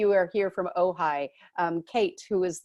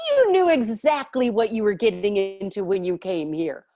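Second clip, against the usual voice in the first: spirit guides; 6 dB louder than usual. Retold or imitated.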